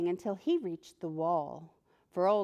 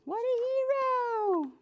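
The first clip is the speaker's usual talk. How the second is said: admiring. Acted. Narrator praising Humpty.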